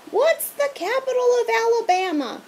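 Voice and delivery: creepy strict teacher calling; teacher calling after fleeing students; monster teacher. A narrator's reading.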